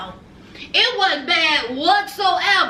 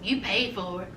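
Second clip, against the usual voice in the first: curt retort; 10 semitones lower, 9 dB quieter than usual. Retold or imitated. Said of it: "June said".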